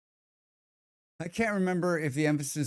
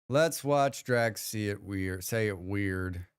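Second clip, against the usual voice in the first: slow repeat; 5 semitones lower, slower than usual. Shown as a demonstration. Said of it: "Let's watch Drax say it weird".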